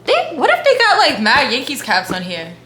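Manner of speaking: light New York accent, excited; a touch of New York accent. Real, not acted. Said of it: "where's my strong New York accent coming from".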